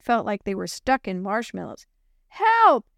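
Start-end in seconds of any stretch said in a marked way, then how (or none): 2.3-2.9 high, loud panicked scream; screaming for help. Acted. Girl facing oncoming truck, screaming in panic. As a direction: scream in terror. Truck coming straight at her.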